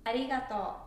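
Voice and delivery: arigato in standard Tokyo intonation; Tokyo accent. Shown as a demonstration. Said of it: "That's Tokyo way".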